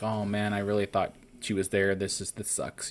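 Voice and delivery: mildly deflated retold quote, trailing off softly; defeated. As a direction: act out a touch of defeat, sinking at the end. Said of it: "Jerry's pretty much, like, defeated".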